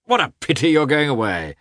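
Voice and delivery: high-pitched, gushing gentleman; exuberant Oblonsky. Acted. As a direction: bubble over with joyous encouragement. Voices Oblonsky in dialogue.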